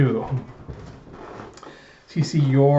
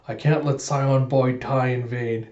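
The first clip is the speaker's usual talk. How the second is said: slow, drawn-out solemn vow; dramatic vow; slower than usual. Retold or imitated. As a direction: stretch it out like a hero's oath. Anya's dramatic vow retold.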